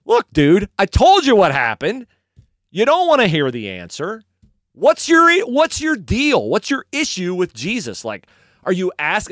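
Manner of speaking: exasperated healed man. Acted. Healed man asks officials what their issue is, exasperated. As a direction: act out losing patience with questioners. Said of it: "And he goes".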